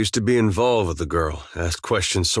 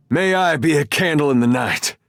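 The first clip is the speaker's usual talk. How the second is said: raised, declaimed invocation; shouted battle prayer; 5 semitones higher, 4 dB louder than usual. Acted. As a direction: call it out over a fight.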